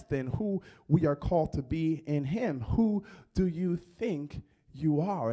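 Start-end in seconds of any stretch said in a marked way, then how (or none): 2.6-5.3 slow, probing challenge, not intimidating; gentle confrontational question. Retold or imitated. Jesus asking the believer, slow and probing. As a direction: ask it so they truly think. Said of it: "doesn't have an intimidating tone, a bit of a confrontational tone".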